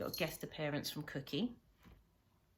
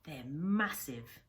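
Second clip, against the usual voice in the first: put-on a boy's logbook read aloud, lively; storyteller reading a novel aloud; story narration; 4 dB louder than usual. A narrator's reading. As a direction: tell it like the boy remembering. Reads the logbook chapter.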